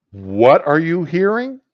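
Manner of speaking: acted startled doctor asking for a repeat; taken aback. Doctor to patient after a shocking answer, acted surprise.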